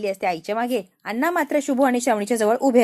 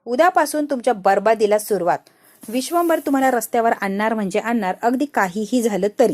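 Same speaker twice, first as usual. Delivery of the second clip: louder, menacing vow of ruin; angry vow; 4 dB louder than usual. Acted. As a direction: swear their ruin in rage. Minister vows their ruin. (रागाने मोठ्याने दिलेली शपथ)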